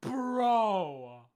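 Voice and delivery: very loud, high-pitched yell; excited shout. Real, not acted. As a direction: bellow it in real excitement. Excited shout at game encounter.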